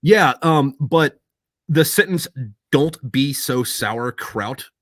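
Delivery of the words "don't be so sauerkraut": slow demo. Shown as a demonstration. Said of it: "means the same thing in both fucking languages".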